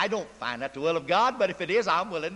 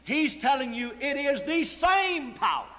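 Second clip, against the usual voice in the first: preaching shout; 6 semitones higher than usual. Real, not acted.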